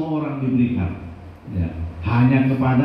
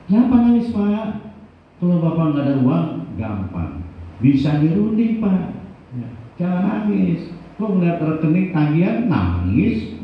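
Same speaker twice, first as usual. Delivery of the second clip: puzzled doctor; 4 semitones higher than usual. Retold or imitated. The doctor asks why he cries.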